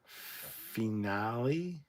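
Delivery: slow, drawn-out questioning; tentative, lengthened query; puzzled guess. Real, not acted. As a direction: stretch it out, unsure of the word. Puzzles over the pronounced word.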